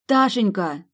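desperate mother calling her lost daughter, voice breaking. A narrator's reading. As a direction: cry out Ташенька as the voice breaks. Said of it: "Срывающимся голосом позвала я дочь".

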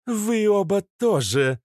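loud, high ringing command. Acted. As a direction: bark the order down at them. Nymph commanding kneeling.

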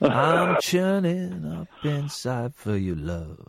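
slow, breathy mock-seductive voice; drawn-out hammed-up crooning line; sexy voice. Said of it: "I can do a sexy voice".

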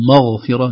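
مغفرة said with the mim and ghayn both heavy; the mistaken مغفرة, all of it made thick; wrong heavy mim. Shown as a demonstration. Teacher to students, showing a wrongly heavy مغفرة. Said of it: "نفخم".

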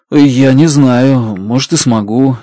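slow, hesitant doubt; hesitate, not yet believing; a hint of uncertainty; unsure. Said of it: "неуверенно говорю я".

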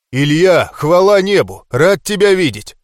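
loud, high glad welcome; relieved exclamation. A narrator's reading. Brother greeting the hero with a relieved shout. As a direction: burst out in relief at the door. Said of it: "воскликнул Арнольд".

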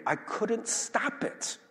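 helpless confession. Shown as a demonstration. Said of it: "helpless confession voiced".

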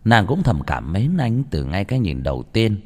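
usual speaking voice

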